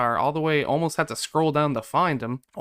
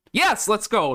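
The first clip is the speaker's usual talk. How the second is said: high, relieved burst of celebration; triumphant; 7 semitones higher, 3 dB louder, slower than usual. Real, not acted. Gamer whose team just won game seven, triumphant. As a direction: celebrate the win with raised pitch.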